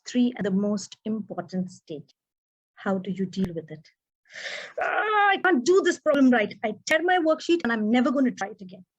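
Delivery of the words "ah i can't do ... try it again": put-on frustrated child. Child failing a math problem.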